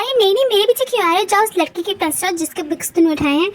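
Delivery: mildly acted jealous huff; a touch of miffed scolding; angry and jealous. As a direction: send them away with sarcastic annoyance. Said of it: "इतना गुस्सा".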